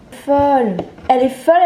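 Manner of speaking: high, loud giddy cry; buzzing with giddy joy; too much caffeine. Real, not acted. Hyped unboxing gift from friend.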